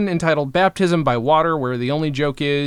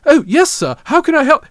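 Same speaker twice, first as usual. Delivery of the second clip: high, loud Southern imitation; Southern accent; 13 semitones higher, 8 dB louder than usual. Host mimics his co-host's wavering sketch accent, mock Southern. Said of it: "you go from English to sort of Southern".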